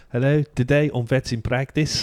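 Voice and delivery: South African presenter greeting; South African TV host imitation; Tudor Moss Stew. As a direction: put on a South African accent, lilting up. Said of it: "do it one more time".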